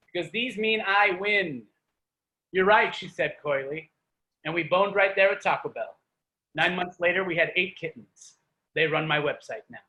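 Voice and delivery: spoken-word poem read to a crowd; poem performance. Acted. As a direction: perform the poem with comic timing. Reads his poem aloud.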